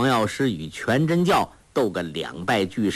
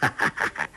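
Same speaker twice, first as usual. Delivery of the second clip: a breathy unvoiced chuckle; hushed, scheming chuckle; soft laugh; 6 semitones lower, 4 dB quieter than usual. A narrator's reading. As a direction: let out a quiet sly laugh. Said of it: "欧阳锋笑道".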